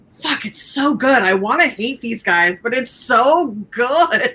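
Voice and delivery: exasperated, drawn-out praise; grudging admiration. Acted. Co-host admitting she loves the theme song, grudging admiration. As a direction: stretch it out, torn between hating and loving it.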